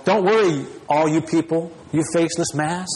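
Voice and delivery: a touch of a cold, impersonal God; dismissive brush-off. Retold or imitated. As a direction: brush off the crowd as a faceless mass. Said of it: "God doesn't say".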